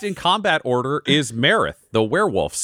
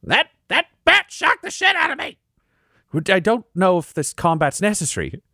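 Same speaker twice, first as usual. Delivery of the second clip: twitchy squeaking rat voice; 8 semitones higher than usual. Acted. Rat keeps talking.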